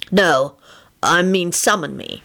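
mildly insistent correction; dogged. A narrator's reading. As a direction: repeat it, sticking to the word. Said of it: "reiterated doggedly".

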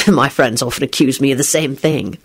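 low voice with a smile; reply lightly through a smile; smiling reply. A narrator's reading. Lupin reassures Beatrice, low and smiling. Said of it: "Lupin replied with a smile".

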